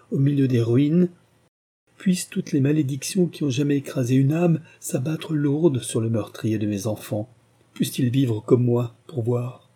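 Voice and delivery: put-on an old father crying out over his ruined children; lamenting, then calling down curses; anguished lament. Father's grief turns to curses.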